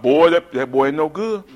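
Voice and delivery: lightly voiced scolding grandmother; grandma's voice. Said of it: "she talked just like that".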